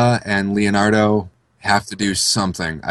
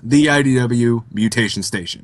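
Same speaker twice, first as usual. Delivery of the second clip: ringmaster. Acted. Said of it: "You, you need to be a radio announcer".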